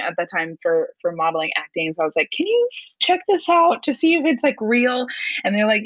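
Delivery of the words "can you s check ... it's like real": high, tentative little voice; mock-timid, pitched-up asking; retold wary request. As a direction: ask it high, as a nervous favour. Retold request to her agent.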